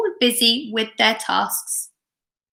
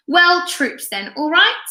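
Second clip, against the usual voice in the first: higher, slow hearty command; a father's mock army order; jolly sergeant; 7 semitones higher than usual. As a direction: play the drill sergeant. Father drilling his kids.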